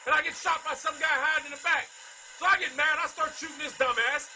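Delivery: raging gamer. Real, not acted. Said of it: "raging at Call of Duty".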